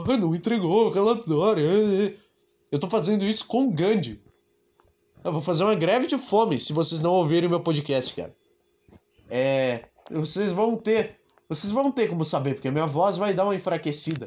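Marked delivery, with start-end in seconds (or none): 0.0-1.6 sarcastic mocking parrot voice, angry-sounding. Showing how to mock an angry person by repeating their words: sarcastic mocking imitation voice. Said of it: "imitar o que ela fala com uma voz sarcástica".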